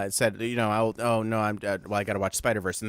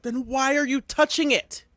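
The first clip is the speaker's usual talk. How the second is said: mock Padmé reply; 13 semitones higher than usual. Quoting Padmé back at him.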